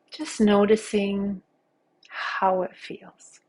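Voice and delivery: unhurried meditation guide with long pauses; guided meditation. Acted. Teacher guiding listeners through a body scan, calm guided-meditation voice. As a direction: lead them gently through each sensation, leaving space.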